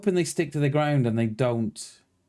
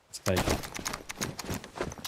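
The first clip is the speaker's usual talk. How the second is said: slow, sneaky whisper, much softer; 6 semitones lower, 10 dB quieter, much slower than usual. Pretend. Gamer whispering to his squad about grabbing loot, slow sneaky whisper. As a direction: whisper it like a secret plan.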